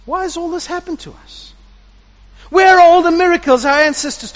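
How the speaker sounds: Gideon's complaint swelling then fading; troubled Gideon. Acted. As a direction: plead your doubt, then let it fall. Gideon questions the angel.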